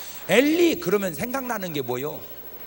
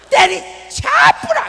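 loud, high, slow Gyeongsang yell; hammed-up fierce Gyeongsang shout; shouted Gyeongsang dialect; 12 dB louder, slower than usual. Preacher mocking how harsh Gyeongsang speech sounds, a loud shout. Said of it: "말이 세요".

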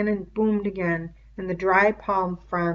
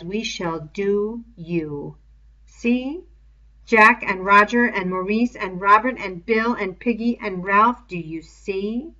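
louder, slow sinister threat; threatening beast; 2 semitones higher, 6 dB louder than usual. Acted. The beast threatening Simon with the boys' names, louder menace. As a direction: promise him harm, slowly.

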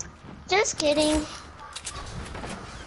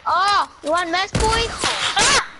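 excited taunt; 4 semitones higher, 4 dB louder than usual. Pretend. Playful game challenge.

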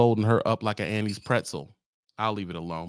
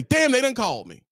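mock driver; 6 semitones higher than usual. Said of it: "So you say".

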